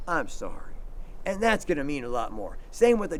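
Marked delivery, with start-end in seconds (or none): 0.1-0.8 sincere sorry. Shown as a demonstration. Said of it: "But if you sincerely mean it".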